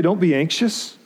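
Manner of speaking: doubter's questioning echo, voice rising at the end; incredulous echo. Acted. Objector challenges Paul's advice on worry, incredulous. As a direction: throw it back as a doubting question.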